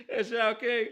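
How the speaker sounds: teasing call-out broken by laughter; laughing taunt. Real, not acted. Host taunting Cowboys fans about their king, laughing. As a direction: rub it in while cracking up.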